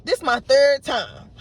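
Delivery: fed up, stating it flatly; frustrated. Retold or imitated. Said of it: "I'm frustrated 'cause I'm like".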